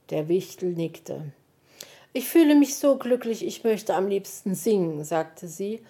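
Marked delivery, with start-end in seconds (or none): 2.1-5.1 glücklich. Acted. Elster ist glücklich.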